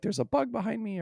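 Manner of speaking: squeaky mock panic; high girly voice. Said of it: "you know, like".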